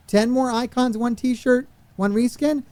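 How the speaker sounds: exasperated recap. Real, not acted. Streamer recapping the meagre unlocks to chat, exasperated. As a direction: repeat the list as if it's an insult.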